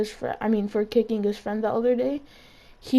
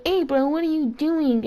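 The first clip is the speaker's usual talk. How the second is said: put-on stuffy-nosed kid; 5 semitones higher than usual. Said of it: "sounded like they had a stuffy nose".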